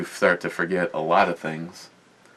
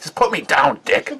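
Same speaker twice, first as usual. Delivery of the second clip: voicing the dog; 7 semitones higher, 6 dB louder than usual. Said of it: "She's like".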